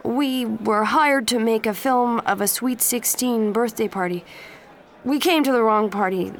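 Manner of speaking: nervous. Acted. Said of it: "the voice said nervously".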